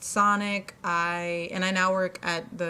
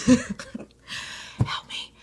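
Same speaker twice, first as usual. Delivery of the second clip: laughing plea; 5 semitones higher than usual. Real, not acted.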